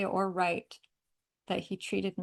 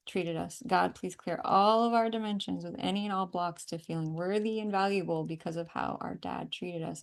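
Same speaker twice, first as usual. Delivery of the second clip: earnest prayer. Acted. Healer praying aloud over the client, firm and earnest. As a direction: pray it out with conviction.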